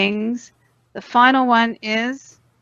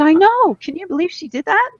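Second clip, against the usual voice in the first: animated quoting herself, higher, faster; retold own reply; 8 semitones higher, faster than usual. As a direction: replay her own indignant agreement. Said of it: "I said".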